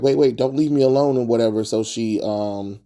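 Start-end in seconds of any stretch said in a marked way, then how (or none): 0.0-1.2 higher, quick retold plea; lightly acted urgent begging; mock pleading. Vampirella calls after Dash running out, mildly pleading.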